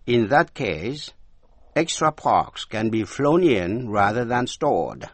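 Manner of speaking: slow, deliberate English example sentence; slow model reading. Shown as a demonstration. Teacher rereading the example sentence slowly. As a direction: read it slowly for learners. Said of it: "Để ý đến câu ở đoạn trên".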